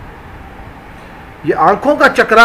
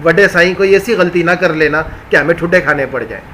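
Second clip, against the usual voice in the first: humble begging body; 4 semitones lower, 3 dB quieter than usual. Acted. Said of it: "جسم ہاتھ جوڑ کے بولتا ہے".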